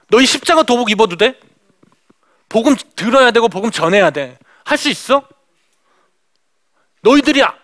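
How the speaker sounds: mock-stern scolding, pointed questions; retold angry outburst. Missionary challenging Muslim students about joining, mock angry. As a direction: act out a mild burst of anger, pausing between challenges. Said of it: "버럭 화를 냈어요".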